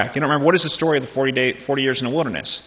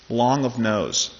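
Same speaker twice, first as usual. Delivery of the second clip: "Long of nose" said slowly, each word weighed; slow emphasis; much slower than usual. Shown as a demonstration. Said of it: "it's a Hebrew idiom".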